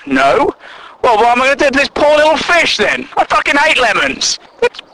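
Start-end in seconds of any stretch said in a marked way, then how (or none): none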